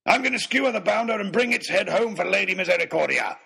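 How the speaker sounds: high, blustering battle cry; bellowed. A narrator's reading. Baronet vowing to harpoon the shark, bellowing. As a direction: bellow it out as a boastful vow. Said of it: "he bellowed".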